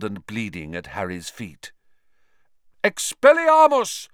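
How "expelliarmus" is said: high ringing spell shout. Acted. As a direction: cast the spell with a loud shout. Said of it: "Lupin shouted".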